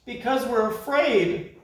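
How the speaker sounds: high, small frightened voices; timid chorus. Acted. Creatures confessing fear together, high and timid. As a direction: admit it timidly. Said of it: "answered in chorus".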